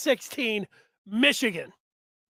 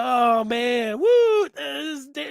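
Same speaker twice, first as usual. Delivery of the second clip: mock nervous relief; 4 semitones higher, 3 dB louder, much slower than usual. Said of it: "you're gonna feel like".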